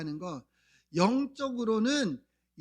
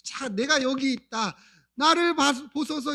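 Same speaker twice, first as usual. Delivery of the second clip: raised, pleading call for attention; imitated crying out; 4 semitones higher, 4 dB louder than usual. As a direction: call out to be noticed, as the beggar. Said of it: "이렇게 소리를 지르는 거예요". (봐 달라고 소리치는 흉내)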